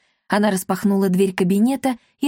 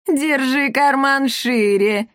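giggling taunt; 5 semitones higher, slower than usual. A narrator's reading. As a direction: giggle the jab at him. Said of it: "хихикнула комендантша".

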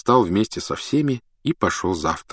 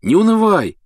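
put-on cheery boy voice; 13 semitones higher, 6 dB louder than usual. Ron cheers up Harry.

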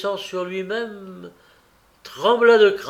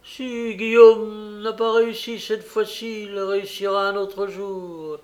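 defiant retort; 6 semitones higher, 5 dB louder than usual. A narrator's reading. Young woman retorts for Guillaume.

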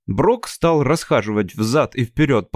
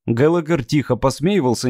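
ordinary delivery, nothing marked

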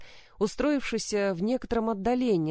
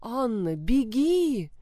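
higher, louder desperate plea; urgent frightened cry, higher and louder; pleading cry; 4 semitones higher, 3 dB louder, slower than usual. A narrator's reading. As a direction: beg her to flee now. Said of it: "взмолилась".

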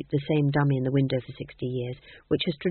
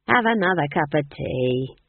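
pleasant. Acted. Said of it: "said Nanny pleasantly".

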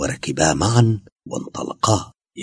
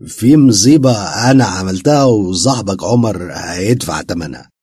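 tearful plea; 3 semitones higher, 6 dB louder than usual. A narrator's reading. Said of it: "دمعت عين مرتزقة".

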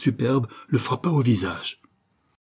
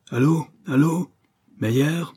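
raised, higher-pitched urgent calling; yelling into telephone; 6 semitones higher, slower than usual. A narrator's reading. Banker shouting for Meyer on the phone, yelling. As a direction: call out sharply down the line, a restrained yell. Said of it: "il se mit à hurler dans l'appareil".

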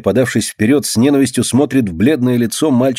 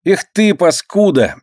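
contemptuous; 9 semitones higher than usual. A narrator's reading. Boy curses girl.

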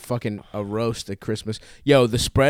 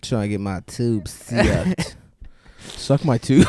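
put-on giggly drunk; slower than usual. Slow giggly repeat.

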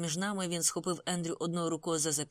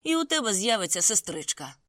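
growled threat; 4 semitones higher, 9 dB louder than usual. A narrator's reading. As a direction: growl the insult to provoke a fight. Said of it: "прогарчав він".

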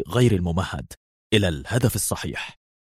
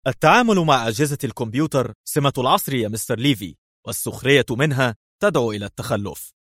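sharp; 3 semitones higher than usual. Acted. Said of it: "قال برونو في حدة".

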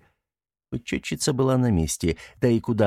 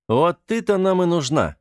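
gotcha tone; 9 semitones higher, 3 dB louder than usual. A narrator's reading. Часовой нашёл кошку.

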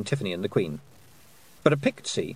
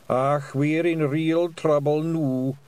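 slow, doomy Scots worry; fretting in the crowd; worried Scots pixie; 5 semitones higher, slower than usual. A narrator's reading. Daft Woolly frightened.

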